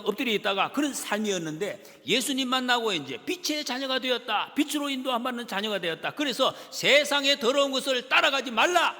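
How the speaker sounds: loud, high, driving sermon voice; fervent preaching. Acted. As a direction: preach it out to the whole congregation. Preaching at full force.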